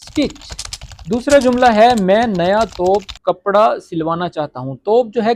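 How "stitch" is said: very slow English, word by word; teacher giving slow translation. Shown as a demonstration. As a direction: read the English meaning out slowly.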